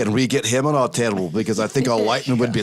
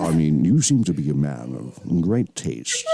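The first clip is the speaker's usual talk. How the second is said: lower, Scottish Connery purr; Sean Connery impression; 5 semitones lower than usual. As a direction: charm them like Sean Connery. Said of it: "I can do a really good Sean".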